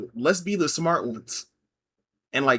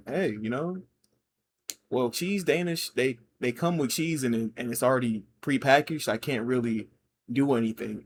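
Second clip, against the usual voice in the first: restrained, polite. Retold or imitated. Barista explaining the cheese Danish to a customer, restrained. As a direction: explain it gently, keeping the aggression back. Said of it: "but I, I didn't do it. But I just said".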